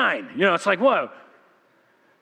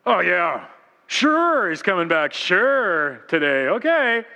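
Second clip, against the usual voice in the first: 1 sarcastic doubt; slower than usual. Retold or imitated. His own sarcastic complaint.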